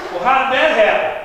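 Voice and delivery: loud, falling question; blunt demand. Acted. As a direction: demand an explanation, loudly. Pharisees' blunt actual reaction.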